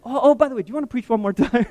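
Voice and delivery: high, quick offhand request; casual ask. Retold or imitated. The minister casually asking him to preach again, high and quick. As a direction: toss it out lightly and fast. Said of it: "And then".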